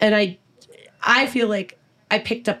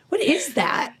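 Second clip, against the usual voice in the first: laughing disbelief; 6 semitones higher than usual. Real, not acted. Laughing at the lyric.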